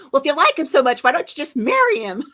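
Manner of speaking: imitating a sulky jealous teen boyfriend. Jealous boyfriend snapping at her over a singer, mock sulk. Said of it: "He was jealous".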